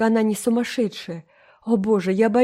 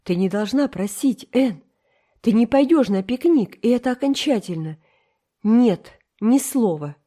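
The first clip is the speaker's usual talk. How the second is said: raised, final, no-argument voice; firm refusal; 4 semitones higher, 4 dB louder than usual. Acted. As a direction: shut the pleading down. Марила отказывает окончательно. (Марила твёрдо отказывает Энн)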